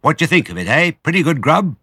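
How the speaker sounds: high, loud and gleeful; bouncy excited fox voice. A narrator's reading. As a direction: crow it out, dancing with delight. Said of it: "dancing up and down".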